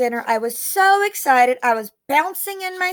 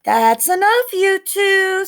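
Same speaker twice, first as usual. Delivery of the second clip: stern; 6 semitones higher, 4 dB louder, slower than usual. A narrator's reading. Father scolds the children.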